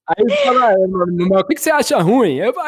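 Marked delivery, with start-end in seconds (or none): 0.7-2.3 put-on old man voice. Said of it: "com voz de velho".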